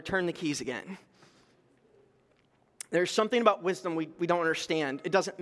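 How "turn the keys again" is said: a hushed, softer divine nudge, lower; quiet hushed voice of God to the brother; soft whisper-like hush. Retold or imitated. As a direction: murmur it gently like a secret. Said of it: "he whispers to my brother".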